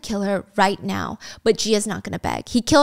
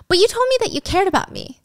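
hurt appeal; 9 semitones higher than usual. Retold or imitated. Acted woman's hurt appeal to driver.

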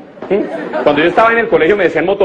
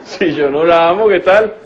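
mock hurt bravado; slower than usual. Man alone after breakup.

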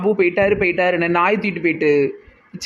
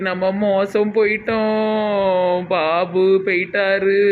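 slow, drawn-out grieving announcement; slow tragic wail of bad news; mournful slow news; much slower than usual. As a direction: drag each word out like it's a death. Breaking bad news tearfully.

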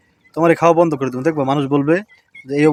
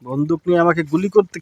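mock fear; 3 semitones higher, 3 dB louder, slower than usual. Father mock-scared of toy gun.

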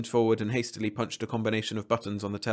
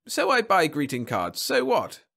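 higher-pitched, irritated retort; defiant; 4 semitones higher, 4 dB louder than usual. Acted. Client challenged about greeting cards, defiant. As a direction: throw it back defiantly.

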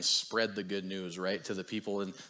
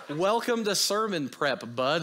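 laughing; 6 semitones higher, 5 dB louder than usual. Retold or imitated. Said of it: "He's like".

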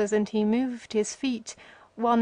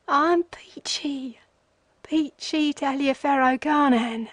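broken vagabond; 4 semitones higher than usual. A narrator's reading. Carnehan's broken monologue.

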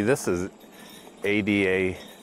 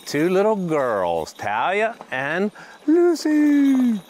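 excited; 7 semitones higher, 4 dB louder, slower than usual. Real, not acted. Gushing over the dogs.

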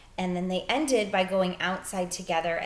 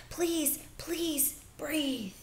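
put-on begging boy; 9 semitones higher, 4 dB quieter, much slower than usual. Bryce begging her to breathe.

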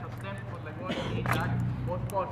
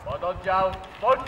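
drawn-out drill command; 10 dB louder, slower than usual. Real, not acted.

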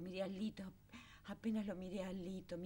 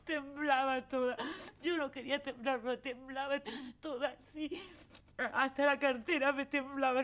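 laughing through tears; 4 semitones higher, 4 dB louder than usual. Real, not acted.

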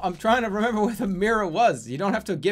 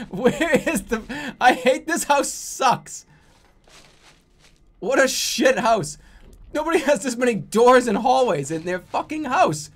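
high, loud, half-laughing complaint; exasperated rant; 7 semitones higher, 5 dB louder than usual. Real, not acted. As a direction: rant at this maddening house. Ranting at a confusing house.

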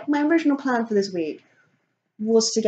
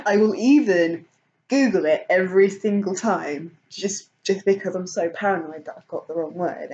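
usual speaking voice

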